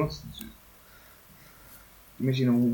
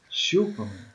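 gloating taunt; slower than usual. Real, not acted. Gloating taunt, third time.

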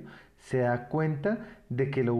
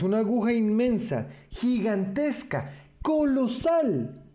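building exaggeration; 8 semitones higher than usual. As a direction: pile up the words, each one bigger. Boy exaggerating the needle's size.

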